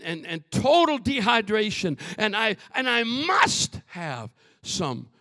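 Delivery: emphatic preacher, punching key words loudly; forceful preaching. Real, not acted. Preacher telling church of desperate thirst, forceful preaching. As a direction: drive it home with stretched stressed words.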